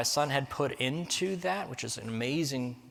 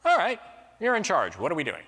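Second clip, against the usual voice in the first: eager schoolgirls; 5 semitones higher than usual. Retold or imitated. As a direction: play an eager student who obeys. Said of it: "The girls are like".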